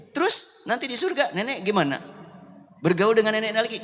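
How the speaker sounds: put-on anxious old woman asking; grandma fussing; worried grandmother.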